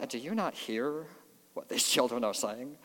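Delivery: soft, mildly snotty mock question; lightly put-on snotty tone. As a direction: quote it with a touch of snottiness. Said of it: "say that in a snotty".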